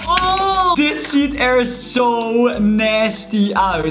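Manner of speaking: grossed out by the slime; disgusted. Real, not acted. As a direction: draw it out in disgust.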